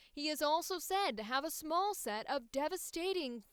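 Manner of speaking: upbeat news anchor read; newscaster voice. Acted. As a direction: deliver like breaking news. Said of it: "the newscaster voice".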